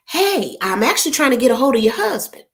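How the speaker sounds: mild, faintly whispered dad voice on the phone; imitating daddy. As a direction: play her father asking politely, half under breath. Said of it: "he will say this right here".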